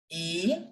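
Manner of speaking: A drawn out as "ah"; a slow French "ah" for A; French letter A. Shown as a demonstration. Teacher repeating the French A for learners, drawn-out "ah". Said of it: "in French as A".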